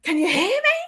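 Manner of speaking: high, loud plain call. Retold or imitated. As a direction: call out, then listen. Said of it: "I did it that way instead".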